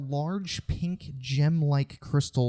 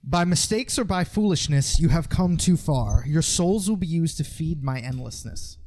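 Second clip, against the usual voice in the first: a grim reaper's menacing rasp, a bit louder; a dry, rattly threat from the dark; dry rattly voice of death; 3 semitones higher, 8 dB louder than usual. Acted. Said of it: "a dry, rattly voice of death and malice".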